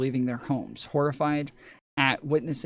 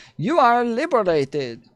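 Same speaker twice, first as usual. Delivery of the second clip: loud, high-pitched put-on Kazakh accent; 9 semitones higher, 8 dB louder than usual. Imitate the people who come in at the end of the movie, in a Borat-like Kazakh accent. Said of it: "They literally sound like Kazakhstanians".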